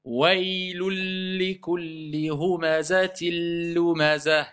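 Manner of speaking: slow, drawn-out chanted recitation; slow Quran recitation. Shown as a demonstration. Teacher models the verse slowly for the class, chanted. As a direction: intone each syllable slowly, merging the nun. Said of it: "pourquoi on récite".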